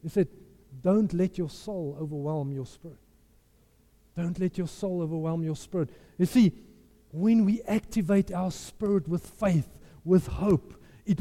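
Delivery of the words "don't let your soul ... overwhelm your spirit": soft, low counsel; hushed, lowered earnest warning; retold grave advice. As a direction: say it quietly and let it sink in. Friend's solemn advice, retold.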